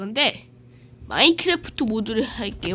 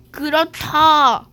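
louder slow drawn-out reply; slow villager voice; 2 semitones higher, 6 dB louder, much slower than usual. Pretend. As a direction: stretch it out like a game NPC. Villager replies slowly.

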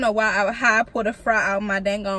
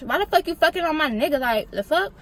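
high, loud mock rage at a cheater; acted furious outburst; 10 semitones higher, 10 dB louder than usual. To her imagined boyfriend and best friend, caught cheating, high loud furious yelling. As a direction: yell it as if confronting the cheating boyfriend.

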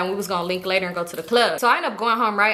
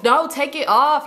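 higher, slow, drawn-out protest; exasperated objection; 4 semitones higher, slower than usual. Retold or imitated. Customer objecting to the tech's rhinestones, exasperated. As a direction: drag out the order in exasperation.

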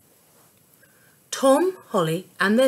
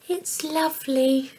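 sighing; 6 semitones higher than usual. A narrator's reading. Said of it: "she sighed".

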